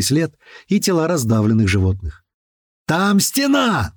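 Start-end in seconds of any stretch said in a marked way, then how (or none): 2.9-3.9 high, drawn-out alarm yell. A narrator's reading. Driver spotting a wall ahead, yelling. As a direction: stretch the warning out in a raised cry. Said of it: "заорал Рыжий".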